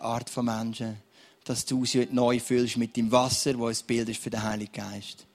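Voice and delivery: earnest spoken prayer over the room. Real, not acted. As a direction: pray earnestly for the dry ones. Pastor prays over congregation.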